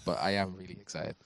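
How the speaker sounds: flat, even monotone voice. Real, not acted. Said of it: "I know my monotone voice doesn't suggest that".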